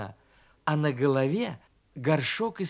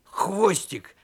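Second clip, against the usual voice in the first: loud greeting with a heavily rolled r; booming hello to a friend; calling out; 3 semitones higher, 5 dB louder, much slower than usual. Acted. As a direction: call out heartily, higher and louder. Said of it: "крикнул он".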